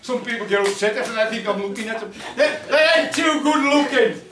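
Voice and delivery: chuckling while talking, a bit fast; laughing through it. Real, not acted. Teller teasing the audience about goblin looks, laughing. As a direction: laugh along with the crowd as you tease them.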